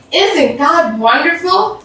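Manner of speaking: high, slow, delighted; beaming joy. Acted. Mashonda to Mrs Kim after finding the money, beaming high delight. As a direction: beam with joy as you say it. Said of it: "Miss Shonda beamed".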